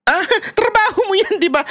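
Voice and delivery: high, laughing mock cop voice; mocking policeman. Lazy policeman brushing off a robbery victim, mocking.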